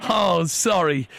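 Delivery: high, hammed-up English accent; poor English accent. Prank caller quotes the song to cafe, poor English accent. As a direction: play up the fake Englishman. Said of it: "disregard the piss poor English accent".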